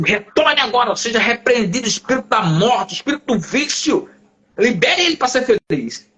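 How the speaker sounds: retold deliverance prayer in commanding tones; exorcism command. Pastor rebuking the spirit over the fallen man, commanding. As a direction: order the spirit out, preacher-style.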